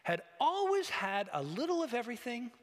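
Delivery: slow, measured story narration; unhurried, solemn reading with drawn-out words; dramatic literary reading. Acted. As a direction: read the vision aloud, savouring each phrase. Reads on from the story.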